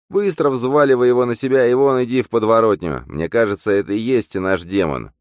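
high, loud, urgent orders; bossy double. Acted. Double ordering Bogdan about.

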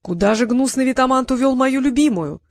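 theatrical hero cry. Acted. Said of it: "воскликнул Трикс".

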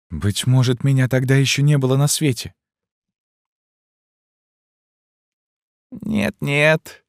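put-on young gypsy girl answering the recluse meekly; timid young girl. A narrator's reading. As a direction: answer gently like a lamb.

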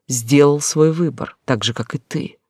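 ordinary delivery

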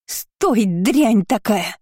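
high, drawn-out angry call; yelling after her. A narrator's reading. Family yelling at the runaway girl, angry calling. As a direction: cry it out high, dragging the insult. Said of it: "под вопли любящей семейки".

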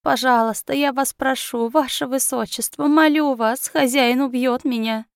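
rising, desperate pleading through tears; tearful begging. Acted. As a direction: beg for your life, voice climbing. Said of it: "умолял герцога, проливая кровь и слёзы".

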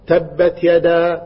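very slow, drawn-out تبت يدا; slow recitation. Retold or imitated. Teacher reciting slowly to a young pupil. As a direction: recite slowly for the child to repeat. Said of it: "على أساس الطفل يقول".

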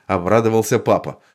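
usual speaking voice

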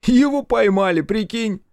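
high, loud, animated partner; high-pitched excited character voice; excited news. A narrator's reading. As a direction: burst out with astonishing news. Partner runs up with startling news.

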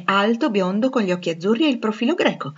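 a light, sardonic echo of her words; mocking repeat. Jealous Rochester mimicking Jane's praise, lightly mocking. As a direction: throw her description back with mild scorn. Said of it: "Le sue parole hanno descritto molto garbatamente".

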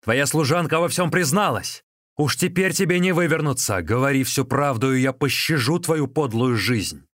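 husband berating his wife, angry yell; furious yelling. A narrator's reading. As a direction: bellow at her. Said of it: "заорал".

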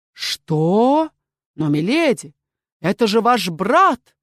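the doctor cries out in disbelief; loud, startled objection; exclaiming. A narrator's reading. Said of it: "воскликнул лекарь".

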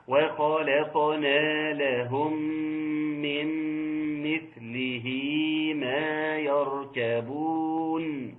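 slow, drawn-out tajweed chant; Quran recitation. Shown as a demonstration. Teacher reciting the verse to the class, slow tajweed chant. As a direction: recite the verse slowly with elongated vowels.

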